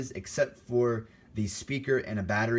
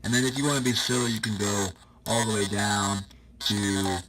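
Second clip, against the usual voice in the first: fast squeaky voice changer Munchkin; chipmunk-like voice box effect; 6 dB louder than usual. Shown as a demonstration. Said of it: "Munchkin voices".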